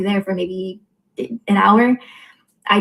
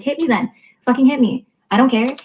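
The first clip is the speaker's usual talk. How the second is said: retold defiant dare; 4 semitones higher than usual. Retold dare to brother in fight.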